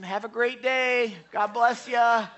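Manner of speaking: high, drawn-out friendly send-off; singsong well-wishing, retold; cheery farewell. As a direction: call it out sweetly to someone leaving. Cheerily wishing the angry man farewell.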